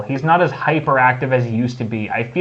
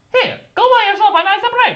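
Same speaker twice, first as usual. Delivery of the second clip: very high, loud, swooping cartoonish Italian accent; 6 dB louder than usual. Unable to do the requested mobster voice, the speaker tries the line as Mario voice. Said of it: "when I hear Italian is Mario".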